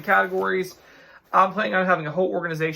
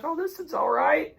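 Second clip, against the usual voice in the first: much higher, bubbly imitation of an excited cashier; 10 semitones higher than usual. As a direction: mimic her squealing over it. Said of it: "She's all excited".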